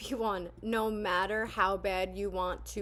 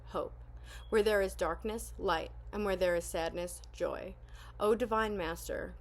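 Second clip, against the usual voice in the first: prayer reading. Acted. Reads the Saint Francis prayer.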